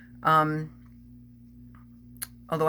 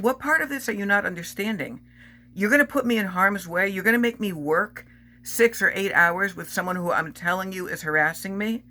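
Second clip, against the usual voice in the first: raised, heated retort to the manager, pitch higher; retold angry retort; 4 semitones higher than usual. Telling off her manager about the harasser, heated. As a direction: demand an answer, indignant and higher.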